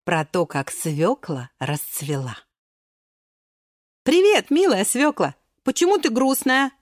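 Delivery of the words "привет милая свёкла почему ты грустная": raised, bright-eyed greeting to a friend; lightly voiced cheerful friends. Friends greet sad beet. (весёлый голос друзей)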